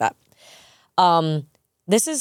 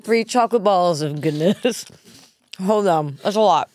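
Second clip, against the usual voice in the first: talking through a mouthful; mouth full. Real, not acted. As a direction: still chewing. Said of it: "how much I'm chewing right now".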